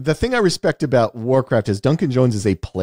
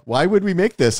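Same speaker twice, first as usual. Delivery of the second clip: mock producer; 6 semitones higher than usual. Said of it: "what producer guy, like".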